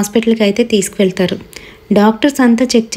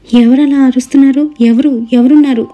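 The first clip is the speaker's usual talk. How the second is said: scared cry; 3 semitones higher than usual. Acted. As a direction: call out into the empty room in fear. Frightened girl hears shouting. (భయంతో అరుపు)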